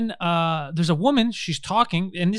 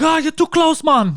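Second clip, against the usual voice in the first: high, louder mock yell laughing; mock panicked yell; 11 semitones higher, 7 dB louder, slower than usual. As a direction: yelp it like a scared stranger. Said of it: "They're like".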